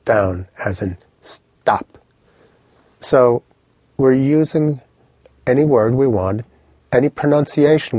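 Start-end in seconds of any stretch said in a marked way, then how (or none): 1.2-2.0 "stop" said short and pushed down; staccato downward tone on "stop". Shown as a demonstration. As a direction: cut "stop" off with a downward push. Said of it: "short staccato push down".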